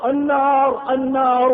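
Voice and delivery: a mild mock yell; dying friend screaming in the flames, in a mild mock yell; retold scream. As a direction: cry out the word as if burning. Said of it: "يصرخ".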